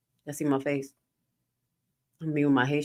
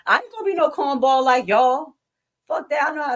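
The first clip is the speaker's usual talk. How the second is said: Impression of a rapper's voice; 9 semitones higher, 5 dB louder than usual. Pretend. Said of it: "my Tupac voice".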